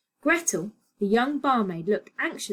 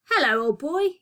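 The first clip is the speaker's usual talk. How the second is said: bright cheerful greeting to a friend; greeting a friend at the bar, cheerful; 6 semitones higher, 4 dB louder than usual. A narrator's reading. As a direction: hail an old friend gladly. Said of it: "he said cheerfully".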